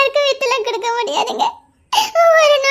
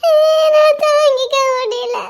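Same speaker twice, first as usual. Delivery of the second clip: crying; 2 semitones higher, slower than usual. Acted. Wife breaking down.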